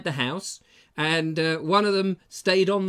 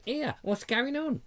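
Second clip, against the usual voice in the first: a lightly put-on silly nosy neighbour, higher and slower; mock nosy "Here, what's going on?" drawn out and raised; 9 semitones higher, 4 dB quieter, slower than usual. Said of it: "Like in a silly voice like that".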